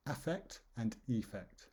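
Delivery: "affect" and "effect" with distinct first vowels; both words sounded out in full. Shown as a demonstration. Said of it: "we pronounce them both effect".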